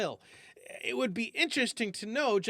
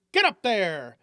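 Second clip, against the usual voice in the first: eager call; 5 dB louder than usual. Acted. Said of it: "with an eager".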